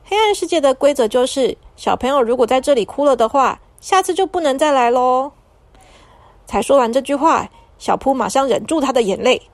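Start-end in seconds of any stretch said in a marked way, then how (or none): 0.0-5.3 lightly voiced big sister announcing a spooky rule; mock-serious rule. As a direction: lay down the rule to scare the kids a little. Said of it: "姐姐就说".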